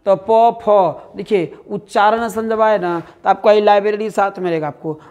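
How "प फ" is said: slow sound demo. Shown as a demonstration. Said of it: "फ वर्ण का उच्चारण".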